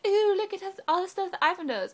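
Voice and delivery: high, loud mocking show-off voice; mock awe. Mimics impressed Android owners.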